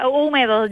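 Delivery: húmedo with the stress on the first syllable; Spanish pronunciation. Shown as a demonstration. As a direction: show how to say "húmedo": HÚ-me-do, silent h. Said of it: "How do you pronounce it?".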